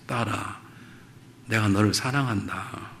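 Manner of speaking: soft, slow and tender; tender fatherly reply. Retold or imitated. Father gently answering his daughter, soft and slow. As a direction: answer her gently, sitting down.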